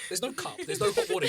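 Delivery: very high, laughing protest; laughing disbelief. Retold or imitated. English teacher handed tea bags, high laughing protest. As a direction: squeak it out through a laugh. Retelling surprise at gift of tea.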